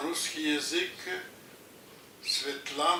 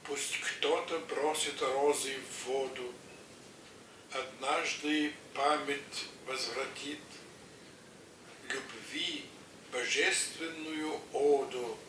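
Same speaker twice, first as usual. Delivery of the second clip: poem recitation; 3 dB quieter than usual. Acted.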